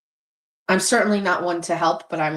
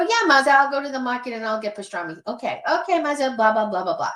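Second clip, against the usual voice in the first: mock cat-talk reply; 6 semitones higher than usual.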